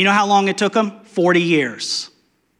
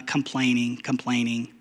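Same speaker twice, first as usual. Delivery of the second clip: softer and lower; fading repeat; 5 semitones lower, 9 dB quieter than usual. Acted. Preacher sums up the people's complaining, trailing off. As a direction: let complaining trail away.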